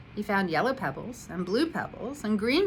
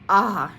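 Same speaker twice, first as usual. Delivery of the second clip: sigh; 11 dB louder than usual. A narrator's reading. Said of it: "he sighed".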